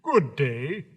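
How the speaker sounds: rough-edged husky hello. Acted. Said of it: "in a rather husky voice".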